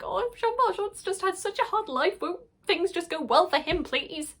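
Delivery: high, whiny plea of pity; mock pleading lament. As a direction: beg on his behalf in a high wail. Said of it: "I'm just like".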